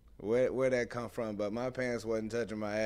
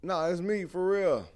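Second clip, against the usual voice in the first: calling to mom; 8 semitones higher, 4 dB louder than usual. Retold or imitated. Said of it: "I was like".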